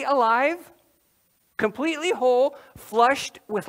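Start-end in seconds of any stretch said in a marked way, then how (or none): none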